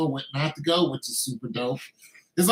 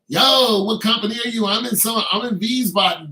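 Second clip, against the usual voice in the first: excited reunion call; 6 semitones higher, 5 dB louder than usual. Retold or imitated. Acted reunion dialogue in Germany.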